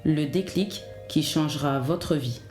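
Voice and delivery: measured, scripted intro narration; podcast intro read. Acted. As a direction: read an encouraging podcast opener in measured phrases.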